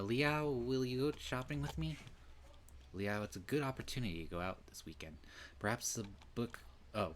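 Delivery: lightly voiced senpai inviting Liao out; eager Senpai. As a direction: coax him sweetly into shopping. Voicing Senpai asking a date.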